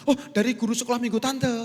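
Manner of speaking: high, innocent reply; aunt answering. Retold or imitated. Sunday school aunt innocently citing her teacher, high. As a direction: answer as if obvious.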